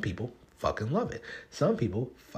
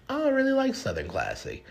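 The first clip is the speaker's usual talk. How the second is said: mock disdain. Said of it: "someone was like".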